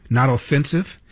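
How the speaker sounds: normal talking voice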